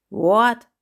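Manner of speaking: loud, sudden burst of fury; furious. A narrator's reading. Clown hears the coin was found, furious. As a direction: bark it out in outrage. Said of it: "twisted with fury".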